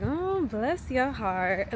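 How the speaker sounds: put-on slow, drawn-out Southern old lady's sympathy; slow "bless your heart" as a Southern old lady. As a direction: lightly imitate an old Southern lady, drawling it out. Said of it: "like, a Southern old lady".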